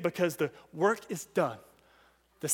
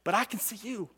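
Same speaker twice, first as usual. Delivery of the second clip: father reassuring; 8 dB quieter than usual. Retold or imitated. Father's reassurance after the yell.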